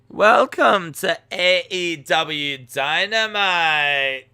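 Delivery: loud, slow mock Scottish announcer; Scottish accent. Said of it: "can you try a Scottish accent".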